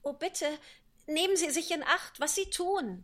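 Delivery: hoch und hastig vor Angst; ängstlich gerufen. Acted. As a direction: ein besorgter, hoher Ausruf. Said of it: "rief Alice, die in wahrer Herzensangst". (ängstlicher Ruf)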